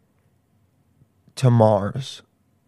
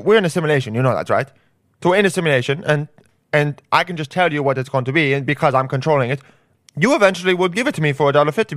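Elon voice; 4 semitones higher, faster than usual. Retold or imitated. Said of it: "He goes and tries to get a coffee".

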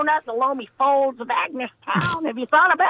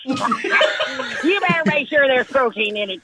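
laughing; slower than usual. Acted. Laughing while teasing.

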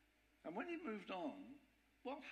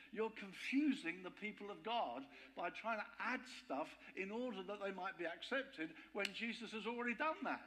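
furious Paul; 3 semitones higher than usual. Retold or imitated. Paul to the Galatians, furious at the added rules, raised voice. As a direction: reject it outright, heated. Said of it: "And Paul is furious".

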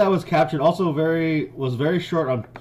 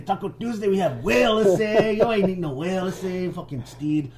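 high-pitched cholo pirate; cholo accent; 5 semitones higher than usual. Acted. Cholo pirate refusing Stede's food, high cholo accent. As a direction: put on a raised cholo sing-song. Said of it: "the other pirates will be like, "Cholos, okay".

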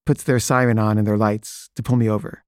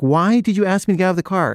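girlfriend demanding why the cop made her get out, pitched way up in mock anger; mock indignant; 8 semitones higher, faster than usual. Girlfriend confronting the cop, much higher, mock angry. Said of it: "she's, like, really mad".

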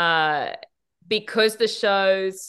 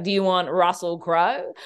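imitated Australian accent. Actor offering Australian options at his audition, in accent. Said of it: "and then in accent".

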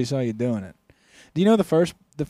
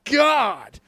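high, loud, slow fake horror; fake shock; 13 semitones higher, 7 dB louder, much slower than usual. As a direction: ham up innocent shock. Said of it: "he's like".

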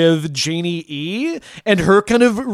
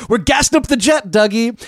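quoting the Mitchum brothers; 4 semitones higher than usual. Retold or imitated. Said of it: "They say".

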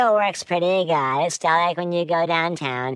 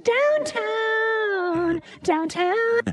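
high chipmunk voice effect; squeaky cartoon storyteller; pitched-up voice. Voice changer pitched up.

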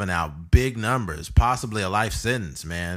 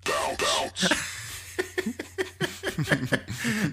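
high, drawn-out real laugh; long laughter; 10 semitones higher, 3 dB quieter than usual. Real, not acted. Co-host tickled by the dating talk, long high laughter.

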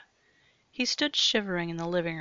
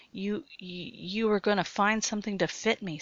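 stammering; 2 semitones higher than usual. Acted. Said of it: "stammered Jared".

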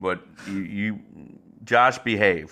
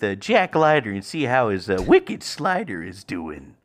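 Pepsi Ninja impression; 3 dB quieter than usual. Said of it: "Or I could do Pepsi Ninja".

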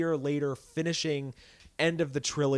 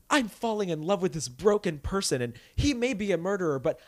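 mocking the granddaughter; 5 semitones higher than usual. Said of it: "the whole point of the movie is like".

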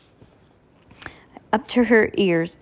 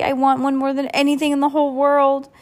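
put-on pleading child, pitched up; begging; 5 semitones higher, 3 dB louder than usual. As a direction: beg like a child. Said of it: "begged Heidi".

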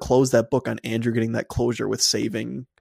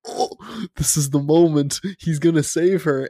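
excited fan; 5 semitones higher, 4 dB louder than usual. Retold or imitated.

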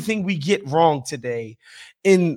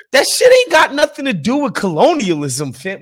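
raised voice, exasperated; loud, fed-up exclamation; emphatic rant; 5 semitones higher, 5 dB louder than usual. Real, not acted. Mocking patois-tinged outburst.

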